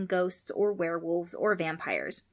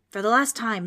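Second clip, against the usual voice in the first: exasperated outburst; 4 semitones higher, 7 dB louder than usual. A narrator's reading. Ghost fed up with Frank.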